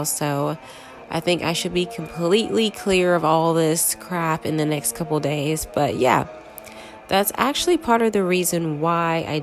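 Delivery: congested voice from a cold; stuffy nose. Real, not acted. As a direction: talk through a blocked nose. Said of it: "I know I sound super congested right now".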